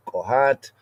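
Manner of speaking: second reading Kohat, light rise at the end. Shown as a demonstration. Teacher comparing two readings of a name. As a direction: say Kohat, round o in the first syllable. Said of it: "Kehat or Kohat".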